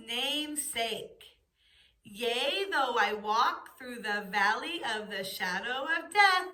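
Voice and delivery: slow, measured psalm recital; slow group recitation. Shown as a demonstration. Teacher leading the class through Psalm 23, slow recitation. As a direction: recite the psalm slowly with the children. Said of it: "let's say it all together".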